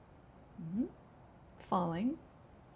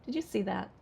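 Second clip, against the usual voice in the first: quick "Did you see that" dropping after "you"; sarcastic question without a rise on "that"; falling intonation. Shown as a demonstration. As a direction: let "see that" fall, fishing for a reaction. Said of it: "with falling intonation".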